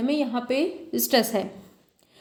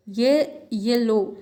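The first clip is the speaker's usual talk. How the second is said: slow "येलो", weight on "ये" and "लो"; stress on both syllables; much slower than usual. Shown as a demonstration. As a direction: give both halves of "येलो" their stress. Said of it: "येलो में दोनों में आपको दिख रहा है". ("येलो" के दोनों हिस्सों पर ज़ोर)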